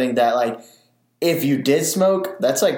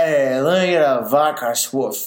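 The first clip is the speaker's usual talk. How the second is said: put-on drunk slurring voice. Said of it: "he was slurring his words".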